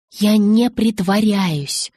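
slow, drawn-out denial; emphatic protest. A narrator's reading. Bella answers Jacob's accusation of pretending, emphatic protest. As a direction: deny it word by word, stretched out.

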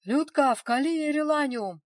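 loud, high yell of an order. A narrator's reading. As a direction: bark the order across the room. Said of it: "орал Самойлов". (громкий высокий крик-приказ)

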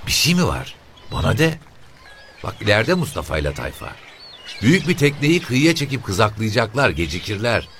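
put-on a pushy, sharp old mother; shrill old woman. The boatmen's mother questions the officer, high shrill woman's voice.

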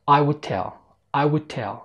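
will tell run together to sound like "would tell"; L dropped in will. Shown as a demonstration. Teacher copies the speaker, "will" losing its L before "tell". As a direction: swallow the L, merging W into the T of "tell". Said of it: "المتحدث هنا ما ظهرش صوت اللام".

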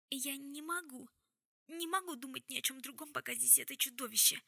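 high, halting, frightened protest; trembling voice. A narrator's reading. Jessamine refusing to speak before the Silent Brother, trembling voice. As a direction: drag out the first words in dread, voice trembling. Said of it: "голос дрожал".

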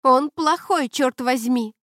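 high, loud scornful retort; angry girlfriend snorting at her boyfriend. A narrator's reading. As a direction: spit it out with contempt. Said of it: "фыркнула Рейган".

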